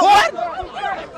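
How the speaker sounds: very high rising disbelief; stunned high what at the news; shocked what. Real, not acted. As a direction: squeak it in shock.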